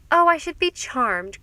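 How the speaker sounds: high, loud society gush; gushing cry. A narrator's reading. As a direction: overdo the delight to win the old man over. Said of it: "cried Missus Vanderburgh".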